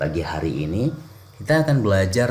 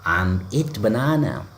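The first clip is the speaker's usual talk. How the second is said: typical learner mistake; 4 semitones higher, slower than usual. Shown as a demonstration. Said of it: "cenderungnya kita akan bilang gini".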